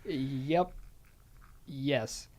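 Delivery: ordinary talk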